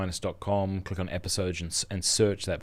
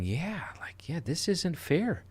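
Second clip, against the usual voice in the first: retold whisper; 9 semitones higher, 5 dB quieter, slower than usual. Priest friend retold, whispering.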